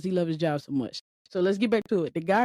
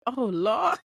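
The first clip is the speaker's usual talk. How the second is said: put-on old man's weary groan; 3 semitones higher than usual. Old man's reaction retold.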